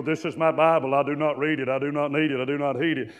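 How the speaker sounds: rote, even recitation; imitating a preacher leading a pledge; Joel Osteen. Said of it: "I'm not talking about Joel Osteen".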